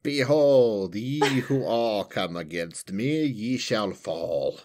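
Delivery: slow, solemn archaic threat; dark lord. Pretend. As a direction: pronounce doom like an ancient ruler. Answering the fantasy lord bit.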